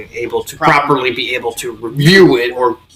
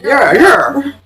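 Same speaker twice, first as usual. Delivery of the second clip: flustered yeah; 9 semitones higher than usual. Retold or imitated. Roy's flustered quote.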